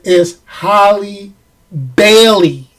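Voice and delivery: slow "Halle Bailey", pausing before "Bailey"; deliberate name correction. Shown as a demonstration. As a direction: set "Bailey" apart with a clear L. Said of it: "made Bailey sound like Barry".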